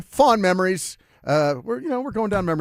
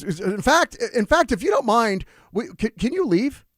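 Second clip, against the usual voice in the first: grumpy grandpa; 11 semitones higher, 5 dB louder than usual. Retold or imitated. Grandpa voiced asking him leave.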